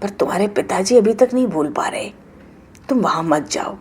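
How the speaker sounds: calm Shiva. Acted. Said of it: "Shiv जी कहते".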